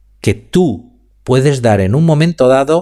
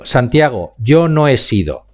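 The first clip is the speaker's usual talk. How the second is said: "yo" stressed, with "yo no he sido" said slowly; slow down and lean on "yo". Shown as a demonstration. Speaking coach showing students how stress changes meaning, leaning on yo. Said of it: "en donde yo ponga la velocidad y la entonación".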